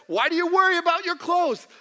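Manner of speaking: lightly voiced Jesus. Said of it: "Jesus says".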